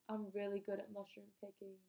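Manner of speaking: light mock British accent; slightly put-on British accent. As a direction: quote him with a hint of a British accent. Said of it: "I'm giving him a British accent".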